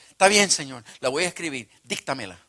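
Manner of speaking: a touch of exasperated defiance; harsh retort. Retold or imitated. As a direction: snap back impatiently, then give in. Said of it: "responder así ásperamente".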